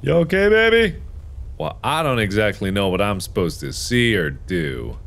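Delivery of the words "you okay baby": gentle concern. Pretend. Checking on crying baby.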